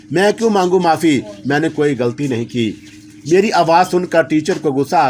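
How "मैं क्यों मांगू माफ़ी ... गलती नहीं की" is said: mild angry protest; a touch of defiant anger, raised at the start. Acted. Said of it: "ऊंची आवाज़ में बोला". (हल्के गुस्से में विरोध)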